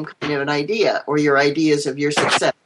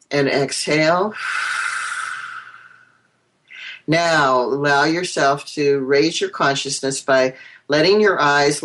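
guided meditation. Acted. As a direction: lead them gently inward.

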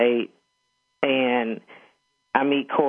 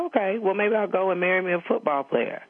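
put-on higher, cheeky teen needling her dad; flippant provocation; 5 semitones higher than usual. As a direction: toss it off as a teasing dare. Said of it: "I was just being condescending".

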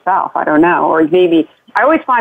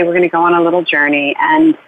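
guided bedtime journey; 2 semitones lower than usual. Shown as a demonstration. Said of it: "And then you say".

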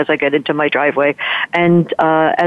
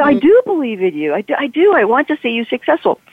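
retold earnest reassurance; 8 semitones higher than usual.

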